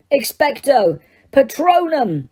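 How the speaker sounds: high, slow, shouted incantation; yelled spell. A narrator's reading. Harry yelling the spell at the Dementor, slow. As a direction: stretch the spell out in a yell. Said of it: "Harry yelled".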